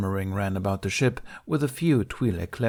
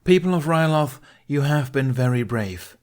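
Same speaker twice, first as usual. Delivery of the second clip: louder, higher call to the crowd; loud address; 7 semitones higher, 6 dB louder than usual. Acted. Ben calls out loudly to the refugees. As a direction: project over the crowd. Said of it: "said in a loud voice".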